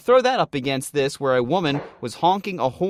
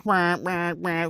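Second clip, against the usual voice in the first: mock horn blasts; 5 semitones higher, slower than usual. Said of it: "what each horn blast in her mind sounds like".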